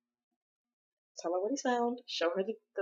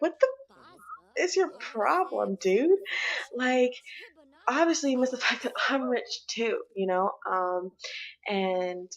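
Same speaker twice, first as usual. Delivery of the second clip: angry voiced quarrel. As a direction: voice her snapping at him, a bit raised. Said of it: "She's gonna be like".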